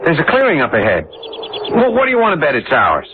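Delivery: calling out with relief; excited calling. Acted. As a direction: shout ahead, thrilled. Husband spots clearing, calls out.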